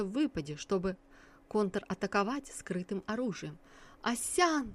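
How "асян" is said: high, full-voiced shout of her name; yelling. A narrator's reading. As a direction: call out with all your strength. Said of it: "во всю мощь заорал Цао Вэйнин".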